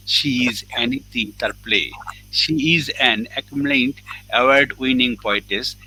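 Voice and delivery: slightly lifted, emphatic read-out bio; announcer-like formal introduction of a guest. Real, not acted. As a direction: introduce an honored poetess, reading aloud.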